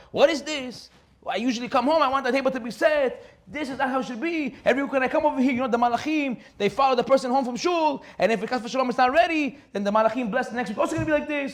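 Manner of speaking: hammed-up Shabbat-night complaint; mild mock yell. Husband scolds wife over the unset table, a mild mock yell. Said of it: "he starts screaming at his wife".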